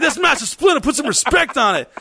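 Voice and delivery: high-pitched mock indignation; indignant correction. Turtle worker to college kid, mock-indignant. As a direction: defend Splinter's honour, hammed up. Acted retort to disrespectful customer.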